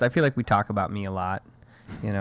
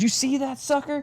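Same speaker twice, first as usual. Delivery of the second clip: little daughter voice. Retold or imitated. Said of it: "And she goes".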